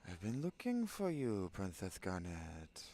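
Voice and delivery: Castellano lisp, Princess said "Printheth"; Castellano Spanish accent. Acted. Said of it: "give her something like a Castellano".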